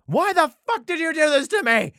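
high, loud mock wail at God; anguished outcry. Job crying out to God over his suffering, a high, loud mock wail. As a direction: throw the question at the sky.

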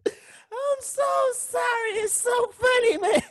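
high, laughing through the words; can't stop cracking up; stifled giggles. Real, not acted. Cracking up over the story.

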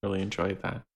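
flat, deadpan mock praise; dripping sarcasm. The speaker mocking the chatty hosts, dripping sarcasm. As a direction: drip sarcasm over every word. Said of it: "the sarcasm was fucking dripping".

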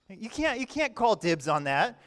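protest, put out on the others' behalf; indignant. Acted. Disciples objecting to James and John calling dibs, indignant. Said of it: "They're, they're indignant".

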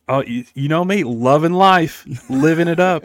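overjoyed guy. Retold or imitated. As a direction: stretch it out like life is a party. Imitating happy Chick-fil-A guy.

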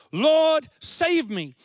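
a mild acted cry for help; cried out. Peter sinking in the storm cries out to Jesus, mildly acted. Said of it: "cried out".

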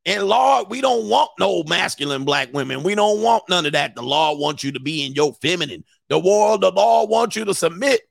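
lightly hammed pulpit preaching about submission; mock preacher. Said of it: "He was talking like this".

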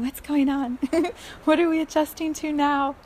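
playful mock panic; bewildered mind. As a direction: act out a mind that has lost the plot. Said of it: "Our minds are going".

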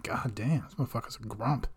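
soft grumbling under the breath; muttered quote. Retold or imitated. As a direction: mutter it to yourself. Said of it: "'cause I'm like".

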